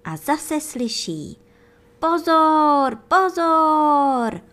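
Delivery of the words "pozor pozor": high, loud repeated warning cry; urgent shout. Acted. Ant shouting at the boy to look out, high and loud. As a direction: call it out twice, sharp and urgent. Ant calls from anthill again.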